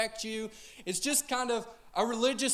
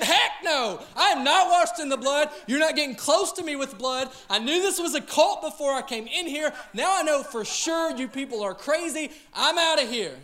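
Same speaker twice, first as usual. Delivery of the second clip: louder, higher, indignant refusal; mock outraged visitor; 3 semitones higher, 5 dB louder than usual. Newcomer recoiling from the hymn, mock outraged. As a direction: back out of the church in disgust. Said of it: "And you said".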